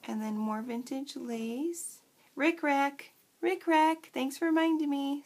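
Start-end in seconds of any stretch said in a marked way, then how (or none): 2.3-5.2 loud, high burst as the name comes back; excited realization. Real, not acted. Remembering the trim's name, excited burst.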